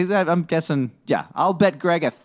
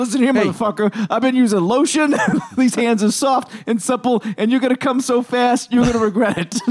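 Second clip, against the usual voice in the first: put-on, higher-pitched Jersey mobster accent; 7 semitones higher than usual. Playing a mobster character in a bit, speak in a Jersey mobster voice. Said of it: "the French mobsters sound just like Jersey mobsters".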